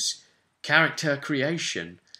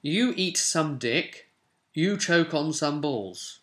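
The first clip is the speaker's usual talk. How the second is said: dwarf's crude taunt; 4 semitones higher, slower than usual. Acted. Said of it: "And the other one is".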